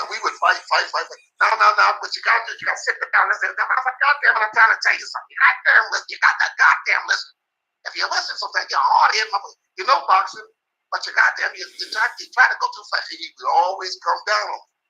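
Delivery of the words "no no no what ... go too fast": much higher, strained lecture; hammed-up cursing scold, pitch jumping way up; mock furious trainer. Trainer Emmanuel berating him to listen, strained and much higher.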